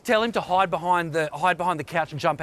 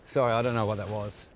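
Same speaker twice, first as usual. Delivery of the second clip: sheepish apology; 4 semitones lower than usual. Real, not acted. Apologising after snapping.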